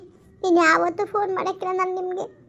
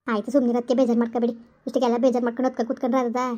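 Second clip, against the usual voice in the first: lower, firm motherly comfort, a bit faster; consoling mother-in-law; 5 semitones lower, faster than usual. Acted. Mother-in-law hushing her crying pregnant daughter-in-law, lower comforting voice. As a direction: talk her out of crying like an older woman.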